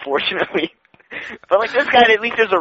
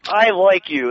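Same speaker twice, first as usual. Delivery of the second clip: put-on higher, accented interviewer voice; Donna; 5 semitones higher, 3 dB louder, slower than usual. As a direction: put on her accent for a simple compliment. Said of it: "she'd just continue talking like this".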